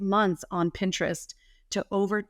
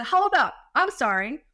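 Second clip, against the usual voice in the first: high, loud stunned interjection; mock disbelief; 9 semitones higher, 5 dB louder than usual. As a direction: cut in as if you can't believe it. Retells stunned reply to client.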